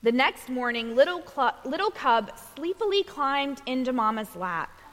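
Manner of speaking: measured picture-book storytelling; reading to children. A narrator's reading. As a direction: read a bedtime story to little ones, giving each line room.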